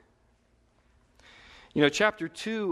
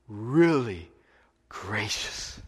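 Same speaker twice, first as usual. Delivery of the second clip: whispered; 5 semitones lower, much slower than usual. Real, not acted. Preacher drops to a whisper.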